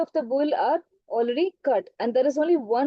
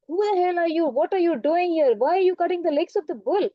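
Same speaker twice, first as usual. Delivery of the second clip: higher, mildly heated questions from the king; furious king demanding; 4 semitones higher than usual. Retold or imitated. Teacher voicing the king confronting Kali, a touch of anger. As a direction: play the king confronting a stranger, half-acted. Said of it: "he gets very furious".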